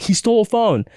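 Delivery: high-pitched mock cry for attention; retold alarm. Guest retells chasing the phone thief, retold alarm.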